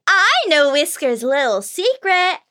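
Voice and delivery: a pixie gloating over a secret; teasing pixie. Acted.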